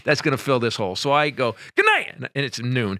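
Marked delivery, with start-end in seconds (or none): 1.8-2.1 loud, high called-out farewell; abrupt sign-off. Retold or imitated. Comic fleeing a silenced noon show, loud abrupt sign-off. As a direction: call it out and bail.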